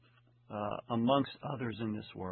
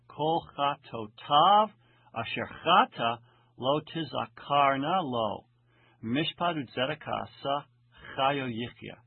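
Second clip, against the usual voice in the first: Hebrew verse reading; 4 dB louder than usual. Acted. Reads the Hebrew verse aloud.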